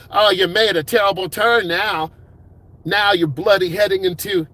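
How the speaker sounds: lightly put-on British telling-off; jokey British accent scolding a student driver; British accent impression. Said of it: "that's my U K impression".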